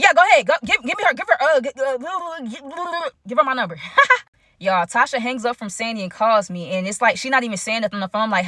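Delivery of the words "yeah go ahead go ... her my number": high, stammering rush that trails into mumbles; frantic eagerness. Pretend. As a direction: blurt it eagerly, tripping over the words. Acts out what she wanted to blurt.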